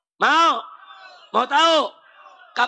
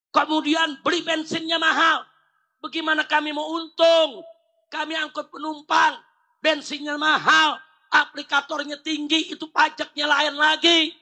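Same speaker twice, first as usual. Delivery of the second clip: raised-pitch string of grievances; protesting ojol driver; 3 semitones higher than usual. Acted. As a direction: lightly act a driver airing complaints. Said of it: "Tukang ojol protes". (menirukan keluhan protes tukang ojol)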